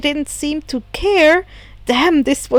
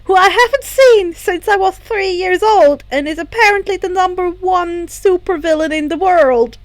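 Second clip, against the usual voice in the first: higher, louder, disbelieving; incredulous rant; 5 semitones higher, 4 dB louder than usual. Acted. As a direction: spit it out in disbelief. Izuku's shocked, indignant outburst.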